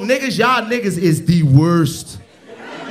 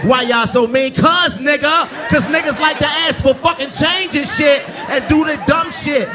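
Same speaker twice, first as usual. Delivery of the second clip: angry rant at heckler; 10 semitones higher than usual. Real, not acted. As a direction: blast the heckler, pitched way up. Comic yells at heckler.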